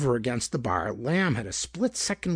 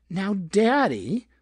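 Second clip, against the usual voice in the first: high, slow, cooing "Now, Daddy"; coy woman's voice; 7 semitones higher, 4 dB louder, much slower than usual. A narrator's reading. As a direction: coax him like a dance hall hostess. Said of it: "she was saying".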